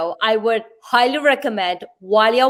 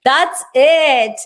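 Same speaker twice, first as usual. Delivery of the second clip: mock shock; 2 semitones higher, much slower than usual. Host playfully echoes the shock.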